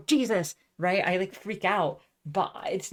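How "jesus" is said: mock startled outburst, louder and higher; startled yelp. Shown as a demonstration. Showing how they react when startled, startled yelp. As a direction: jump as if spooked. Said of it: "like, scream".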